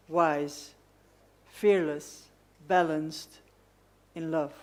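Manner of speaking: measured list-poem recitation with deliberate pauses; poetry reading. Acted. Poet reading a love poem to an event audience, measured recitation. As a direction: set each image apart, phrase by phrase. Reads own poem aloud.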